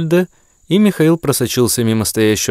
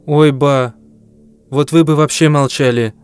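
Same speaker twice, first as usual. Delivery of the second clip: put-on annoyed girl; 4 semitones higher than usual. Girl scolds grandmother.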